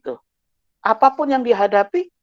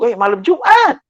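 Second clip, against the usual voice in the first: a called-out spooked cry; mock exclaim. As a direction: call it out as if spooked. Retold exclaiming about Thursday night.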